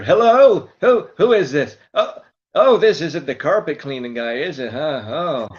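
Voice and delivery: put-on high, loud dim old guy; Buddy voice. Buddy asking a telemarketer about blood stains, high and loud. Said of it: "Buddy was on the phone".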